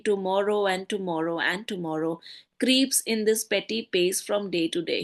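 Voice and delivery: a touch weary and heavy, gently dropping; mild, downcast recitation; depressed. Shown as a demonstration. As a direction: read it like a man worn down by loss. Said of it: "Now he's sounding very depressed".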